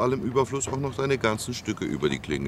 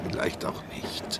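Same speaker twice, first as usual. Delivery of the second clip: whisper; 5 dB quieter than usual. Acted. Teasing whisper reply.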